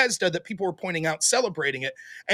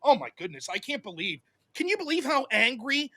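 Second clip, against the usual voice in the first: fast, much softer mock gasp; imitating a sneering accuser; mocking fake outrage; 4 dB quieter than usual. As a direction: rattle it off like a smug pearl-clutcher. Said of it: "they're like".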